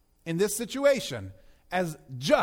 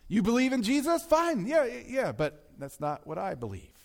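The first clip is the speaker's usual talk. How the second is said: dismissive objector; 3 semitones higher than usual. Retold or imitated. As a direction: imitate someone waving the subject away.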